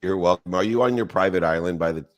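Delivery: usual speaking voice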